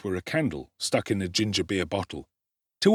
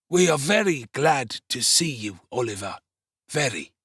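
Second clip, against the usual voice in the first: put-on higher, wheedling old man voice; oily Fagin; 4 semitones higher than usual. A narrator's reading. Fagin greeting Oliver, oily and wheedling. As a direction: welcome him with false sweetness. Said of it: "said the Jew".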